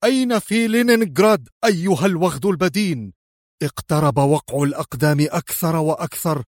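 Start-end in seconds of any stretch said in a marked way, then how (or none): 0.0-3.1 raised, rough, threatening demand; violently harsh. A narrator's reading. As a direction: press the question brutally at a captive. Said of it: "ويكرر بقسوة وخشونة عنيفين". (بقسوة وخشونة عنيفة)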